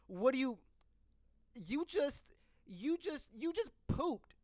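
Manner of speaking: cracking up while accusing; laughing disbelief. Retold or imitated. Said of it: "And I'm just like".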